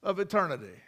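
preacher voicing the angels' loud cry of praise. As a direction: cry it out like angels before the throne. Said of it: "They're crying".

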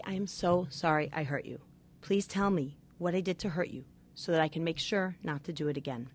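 loving apology. Shown as a demonstration. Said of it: "lovingly say".

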